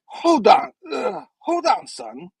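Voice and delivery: acted high-pitched interjection; Cap. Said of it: "Cap's like".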